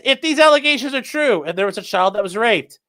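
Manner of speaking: lightly imitated streamer cadence; Darkside Phil. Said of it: "I almost sound like Darkside Phil saying that".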